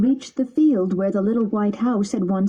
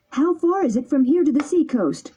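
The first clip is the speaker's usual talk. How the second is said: anxious question; 6 semitones higher than usual. A narrator's reading. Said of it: "Pinocchio asked anxiously".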